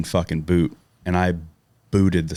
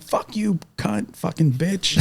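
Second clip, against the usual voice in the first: much higher mock shout breaking into laughter; laughing mock yell; 11 semitones higher, slower than usual. Yelling back at the scolding bystander, laughing mock shout. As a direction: fling it back at her, cracking up.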